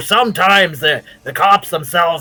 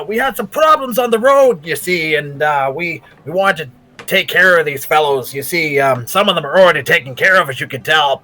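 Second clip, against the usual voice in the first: slick, wheedling rogue charm; butter up the officers; smooth-talking Roland. Acted. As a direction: rogue talking his way past the sheriff.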